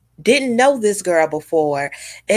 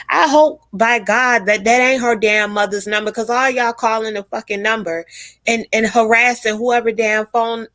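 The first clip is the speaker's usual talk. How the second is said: higher pitched, fed-up scolding; heated rant; 4 semitones higher than usual. Real, not acted. Scolding viewers for calling the number, fed up. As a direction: tell them off for harassing a stranger. Ranting about people harassing phone number.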